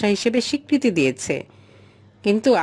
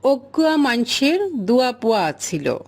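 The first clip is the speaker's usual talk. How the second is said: Chittagong dialect. Shown as a demonstration. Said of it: "দেখো উদাহরণে".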